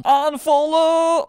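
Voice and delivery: loud slow battle cry. Acted. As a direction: yell the charge.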